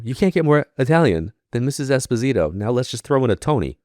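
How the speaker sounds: laughing sarcasm. Retold or imitated. Mocking the psychic's guess.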